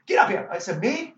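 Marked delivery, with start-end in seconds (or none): 0.1-0.5 loud, high demanding yell; imitated shouted order; Don Rickles. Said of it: "he demanded". 0.8-1.1 high, loud startled question; mock-incredulous yelp; startled disbelief. Acts out his startled reply.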